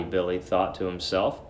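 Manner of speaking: ordinary delivery, nothing marked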